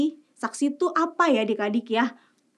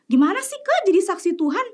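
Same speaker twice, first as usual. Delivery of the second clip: put-on child voice; 8 semitones higher than usual. Child asks the presenter.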